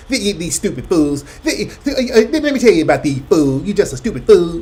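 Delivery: mocking the insulters. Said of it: "They immediately get into the insults".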